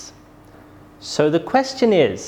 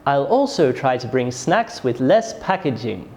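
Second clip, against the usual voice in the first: "packaging" falling at the end; falling statement intonation; 3 semitones lower than usual. Shown as a demonstration. Teacher demonstrates a statement, falling tone on "packaging". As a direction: let the voice drop on "packaging". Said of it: "Statements often have a falling tone".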